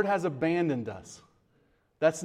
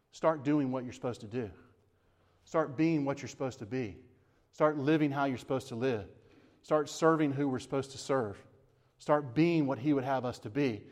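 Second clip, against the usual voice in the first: "Start" stressed at the head of each line; right emphasis. Shown as a demonstration. Pastor stressing the right point to his church, firm. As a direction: drive every "Start" home, line by line. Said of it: "The emphasis is this".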